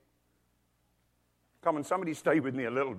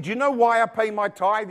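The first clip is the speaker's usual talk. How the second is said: higher, louder insistent question; retold emphatic question from father-in-law; father-in-law's emphatic question; 6 semitones higher, 5 dB louder than usual. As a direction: quote him pressing the point. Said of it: "He said".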